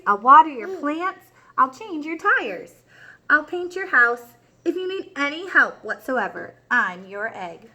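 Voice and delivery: bright, lively storybook reading; reading to children. A narrator's reading. Teacher reading The Good Egg to her class, lively. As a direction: read it big for little listeners. Reads picture book to class.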